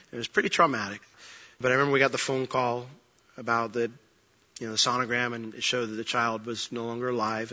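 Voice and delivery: soft, low, subdued telling of loss; hushed grief. Real, not acted. Pastor recalling the lost baby to his church, hushed. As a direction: let the memory weigh on every word.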